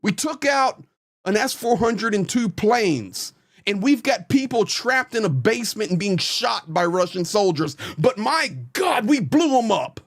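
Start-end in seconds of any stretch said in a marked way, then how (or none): 0.0-3.3 higher, overblown mock triumph; mocking hype. Mocking hopium war posts. 8.0-10.0 mocking glee. Mocking hopium war posts.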